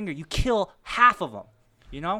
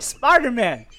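higher, laughing mock grief; laughing dismay; 7 semitones higher, 6 dB louder, slower than usual. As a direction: laugh through the name in mock despair. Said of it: "I was like".

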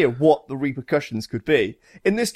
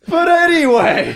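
loud, high, drawn-out call to order; emphatic interruption; 13 semitones higher, 7 dB louder, slower than usual. Real, not acted. Host dragging friends back on topic, loud interruption. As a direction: cut across the chatter, stretching the words.

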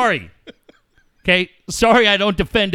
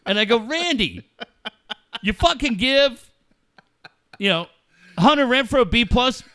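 angry confrontation; 2 semitones higher than usual. Retold or imitated. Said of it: "you told me how angry you were".

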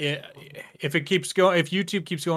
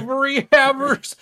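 mocking disbelief; 11 semitones higher, 6 dB louder than usual. Real, not acted. Echoing term in disbelief.

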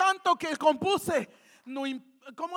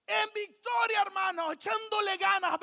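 reply with mock pep, pitched up a little; acted upbeat reply; 3 semitones higher, 4 dB quieter than usual. Preacher voicing a sister answering a greeting, lightly acted upbeat reply.

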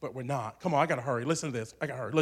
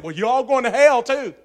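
much higher and louder hypothetical retort; mock shout; 8 semitones higher, 12 dB louder than usual. Preacher imagining yelling back at the professor, hammed-up shout. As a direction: fire it back at the room. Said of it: "If I'd have said".

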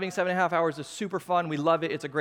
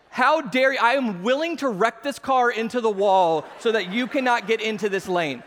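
hammed-up indignant road rage; angry outburst. Pastor acting out his road rage at a truck, angry. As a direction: play it outraged at the driver cutting in. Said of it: "I was so angry".

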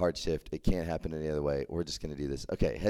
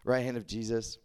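higher, mildly mocking outrage; indignant disciples; 5 semitones higher, 4 dB quieter than usual. Other disciples scolding James and John, mock indignation. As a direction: needle the brothers with disbelief. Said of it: "They're like".

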